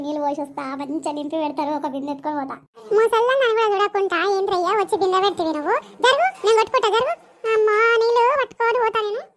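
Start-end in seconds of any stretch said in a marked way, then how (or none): 3.0-9.2 higher, loud angry quarrel; louder and higher quarrel; angry shout. Acted. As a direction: tell him off at the tap. Angry fight at the tap.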